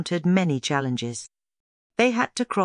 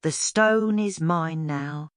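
slow, higher sly snake taunt; gloating snake villain; 4 semitones higher, slower than usual. A narrator's reading. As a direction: savor each word like a smug snake. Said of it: "he hissed".

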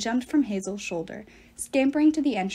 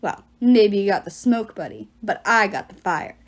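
louder, cocky challenge; defiant taunt; 6 dB louder than usual. Acted. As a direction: throw it back in his face. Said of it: "Leo growled".

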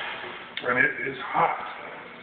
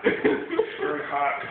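very slowly, stretched through a pained laugh; slow, drawn out; much slower than usual. Real, not acted. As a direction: drag each word out, laughing in pain.

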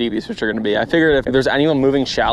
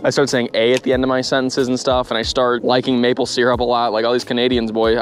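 put-on Canadian accent. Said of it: "I'm doing my Canadian accent right now".

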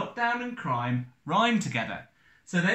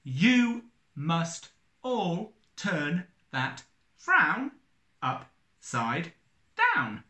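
counting syllables; slower than usual. Shown as a demonstration. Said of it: "nine syllables".

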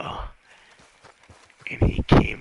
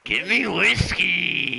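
higher, louder, slow "Give me whiskey!"; shouted demand; 8 semitones higher, 6 dB louder than usual. Acted. Johnny shouting at the bartender for whiskey, loud. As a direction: bellow the demand.

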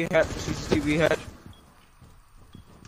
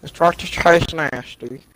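slow, drawn-out character voice; Cleveland; 4 dB louder, slower than usual. Acted. Teammate joking about nasty taste, slow cartoon impression. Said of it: "sound like Cleveland".

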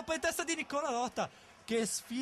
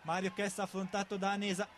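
rising excitement. Real, not acted. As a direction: voice climbing with the attack. Chance building in the box.

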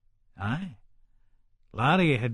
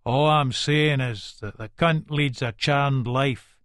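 hard; slower than usual. Acted. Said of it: "eyes are set all that hard way".

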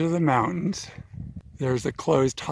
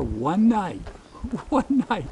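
laughing; 6 semitones higher than usual. Real, not acted. Amused at short one-night trip.

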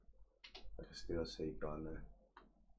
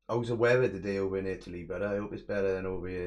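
loud chat; 10 dB louder, faster than usual. Real, not acted. Chatting loudly to viewer in Italy.

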